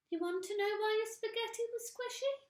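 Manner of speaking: put-on high teasing old woman; sly gloat. Missus Twit baiting her husband. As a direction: tease him slyly.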